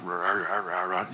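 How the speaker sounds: quiet discontented mumble; grumbling mumble. Shown as a demonstration. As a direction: mutter it like a crowd complaining under its breath. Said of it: "let's just do a little mumbling and grum".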